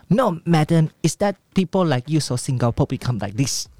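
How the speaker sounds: put-on lightly Singaporean-accented English retort. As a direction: fire it back in Singlish-flavoured English. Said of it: "为什么你有新加坡腔". (带新加坡腔的英文顶嘴)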